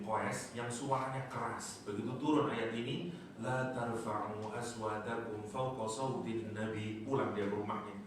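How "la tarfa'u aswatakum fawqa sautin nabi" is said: slow chanted recitation of the verse; chanting a Quran verse to the congregation; Quranic recitation. Shown as a demonstration. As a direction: recite it slowly and reverently.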